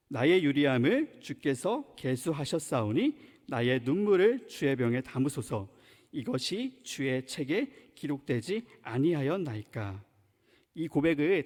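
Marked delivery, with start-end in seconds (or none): 0.1-10.0 slow, low scripture reading. Acted. Preacher reading a psalm to the congregation, slow and measured. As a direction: read the verse out slowly and solemnly. Reads a Bible verse aloud.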